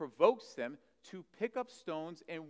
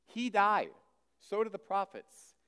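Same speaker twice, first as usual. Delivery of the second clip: higher, louder retort; 8 semitones higher, 7 dB louder, slower than usual. Acted. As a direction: punch it back at him. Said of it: "They're saying".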